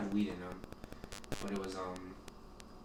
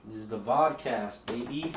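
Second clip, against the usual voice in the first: show intro hype; 4 dB louder than usual. Acted. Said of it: "hosting the show opener".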